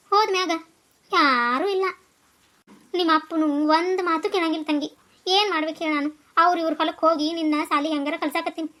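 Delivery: tearful. Acted. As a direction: let the sorrow pull the voice down. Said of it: "ನೀ ಅಳ್ಬೇಡ".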